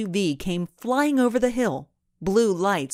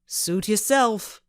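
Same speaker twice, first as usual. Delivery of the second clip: slow, higher, mildly angry; a thug's short warning before he grabs her; mild anger; 4 semitones higher, slower than usual. A narrator's reading. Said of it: "he said angrily".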